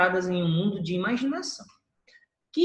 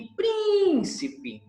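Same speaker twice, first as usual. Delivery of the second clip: príncipe with a long, high "prín"; calling the word; 12 semitones higher than usual. Shown as a demonstration. Teacher showing the tonic syllable to the class, príncipe held high on "prín". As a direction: stretch and lift the first syllable of príncipe, then let the rest drop. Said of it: "chamando a palavra".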